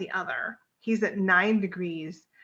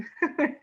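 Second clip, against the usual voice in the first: brief chuckle; 7 semitones higher than usual. Real, not acted. Chuckles after advising to breathe.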